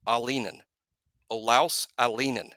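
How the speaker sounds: Alinen said AH-lee-nen, stress on the first syllable; correct pronunciation. Shown as a demonstration. Host teaches the family's way, careful AH-lee-nen. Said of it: "properly pronounced Alinen".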